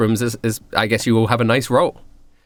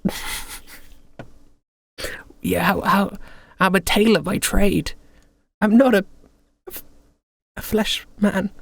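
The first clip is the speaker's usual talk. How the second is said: higher, huffy character voice; indignant Douglas; 7 semitones higher than usual. Acted. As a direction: protest like an offended tailor. Douglas protests being in a body.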